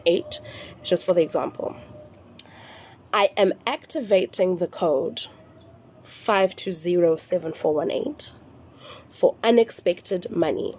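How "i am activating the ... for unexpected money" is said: slow dictation, pausing between parts; measured, spaced out for note-takers; nice and slow. Shown as a demonstration. Giving the example code phrase to followers, nice and slow. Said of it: "I'm gonna say it really slowly".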